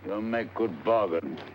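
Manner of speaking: put-on slow, lightly accented Lascar sailor; murderous Lascar. Disguised detective bargaining with an informant, lightly voiced Lascar. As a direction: haggle slowly in a put-on Lascar voice. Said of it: "in the character of a murderous Lascar".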